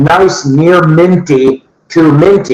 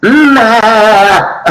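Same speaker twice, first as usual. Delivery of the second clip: a light, higher hum of a TV panelist; mm-ah like a game show panelist, lightly done; Charles Nelson Riley impression; 5 semitones higher than usual. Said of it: "my Charles Nelson Riley impression".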